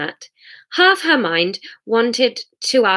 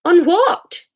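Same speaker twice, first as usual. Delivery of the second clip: higher, louder insistent call; 10 semitones higher, 5 dB louder than usual. A narrator's reading. Hamish calls after Jesus for an answer, loud high call. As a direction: repeat the question as a loud call. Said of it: "called Hamish".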